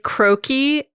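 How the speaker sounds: croquis said as "CROH-kee"; Americanized pronunciation. Shown as a demonstration. Giving co-host an example of American twang, Americanized "croquis". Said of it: "that's how I've heard every American say it".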